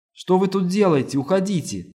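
panicked, loud and high; frightened cry. A narrator's reading. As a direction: recoil and order him out. Startled woman orders visitor out.

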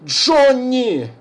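high, loud call of the son's name; pleading call. Acted. Father calls his runaway son, pleading shout. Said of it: "просил Хорн".

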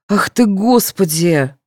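ordinary delivery

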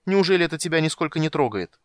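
indignant. A narrator's reading. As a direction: demand he cares. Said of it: "страстно выкрикнула Тика".

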